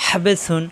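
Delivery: হাবে সুন with হা pressed in the throat; throaty ha. Shown as a demonstration. Teacher shows correct articulation, throat-pressed হা in হাবে. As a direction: squeeze mid-throat to start হাবে. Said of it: "হা কণ্ঠনালীতে চাপ দিয়ে".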